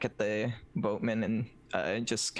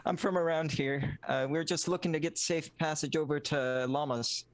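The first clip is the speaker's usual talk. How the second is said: in-character voice; 5 semitones higher than usual. Acted. Answering the boatman in character.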